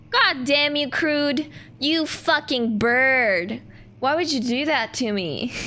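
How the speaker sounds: playful cursing with drawn-out emphasis; mock outrage. Playfully blaming viewer Crude.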